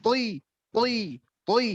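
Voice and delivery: TOI with a thick, heavy t; thick, heavy consonant. Shown as a demonstration. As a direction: keep the t of toi full and heavy. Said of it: "Ketika kasro juga tebal".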